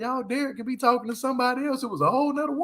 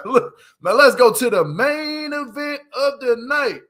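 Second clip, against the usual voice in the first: hype; 4 semitones higher, 5 dB louder than usual. Real, not acted. Announcing the main event.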